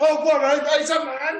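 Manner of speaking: put-on furious brute voice. Retelling the film scene where Lug learns the truth: imitating Lug in a rage. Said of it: "he then goes full Begbie from Trainspotting".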